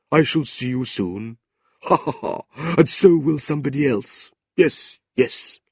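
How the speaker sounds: knowing little laugh; hint at a secret with a chuckle; sly chuckling clerk. Acted. Old clerk teasing Kate with a secret, a hint of sly laughter. Newman hints slyly, laughs.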